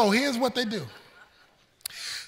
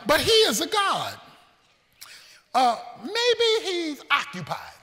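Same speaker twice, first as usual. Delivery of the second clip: sarcastic mock; 5 semitones higher than usual. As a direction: fake sympathy for a busy god. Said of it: "he mocks them".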